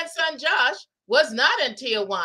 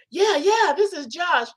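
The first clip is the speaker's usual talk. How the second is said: eager scammer; 5 semitones higher, 3 dB louder than usual. Retold or imitated. Scammer eagerly confirming identity.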